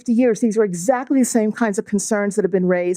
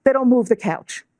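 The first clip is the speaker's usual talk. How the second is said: put-on New York accent; 3 semitones higher than usual. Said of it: "that was my New York accent coming out".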